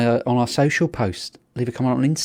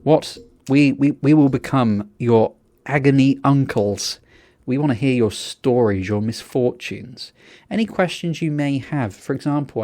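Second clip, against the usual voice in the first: wrestling promo. Pretend. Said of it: "I'm gonna do a promo now".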